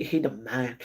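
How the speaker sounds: ordinary delivery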